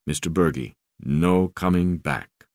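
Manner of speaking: crewman's voice. Acted. African crewman breaks bad news.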